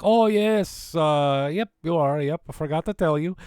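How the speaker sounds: put-on voice of a dad casually remembering; dad's breezy reply. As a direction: imitate dad in a high, loud voice. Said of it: "He's like".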